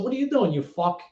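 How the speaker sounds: playful mock abuse, starting high; retold ribbing between buddies; joking around. Answering a friend's phone call, joking around. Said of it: "joking around".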